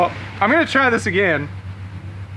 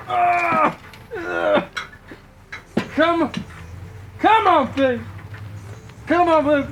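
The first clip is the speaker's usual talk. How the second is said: higher, mock-pleading friend voice; imitating Tanner; 8 semitones higher, slower than usual. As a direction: mimic a friend's coaxing. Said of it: "Tanner says".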